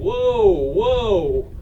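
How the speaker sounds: frantic shout to a runaway horse; panicked whoa. Acted. Panicked rider calling to horse.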